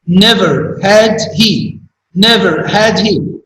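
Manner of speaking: slowed for emphasis. Shown as a demonstration. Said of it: "in the second sentence, we have".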